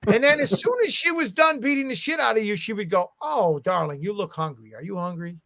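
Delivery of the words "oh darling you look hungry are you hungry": mock sweet mother. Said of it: "she turned into a mother all of a sudden".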